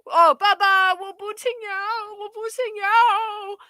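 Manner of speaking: put-on high childish whine; imitating a whining kid. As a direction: play a child begging his dad. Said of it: "the kid would be crying".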